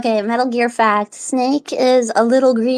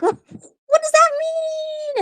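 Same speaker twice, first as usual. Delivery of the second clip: mock confusion; much slower than usual. Confused by Gaston's joke.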